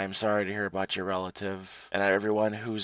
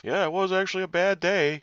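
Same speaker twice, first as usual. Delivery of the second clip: hick sheriff; 9 semitones higher than usual. Retold or imitated. Podcaster mocks the Georgia sheriff's excuse in a high hick voice. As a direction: play a dim small-town sheriff excusing it. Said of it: "you had the Billy Bob sheriff".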